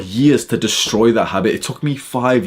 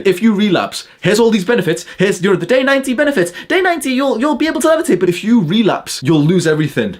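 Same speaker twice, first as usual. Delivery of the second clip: much higher, hyped-up sales pitch parody; mock nofap guru; 10 semitones higher than usual. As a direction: oversell the benefits in a silly high voice. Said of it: "that's what they say".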